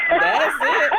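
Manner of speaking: squealed high and breathy. Real, not acted. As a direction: squeal it out with delight. Playful back-and-forth repetition.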